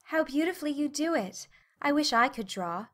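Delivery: high, wistful admiration; admire, then sink slightly into regret; admiring and regretful. A narrator's reading. Meg watches Miss Kate sketch, admiring and regretful. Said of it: "mingled admiration and regret in her voice".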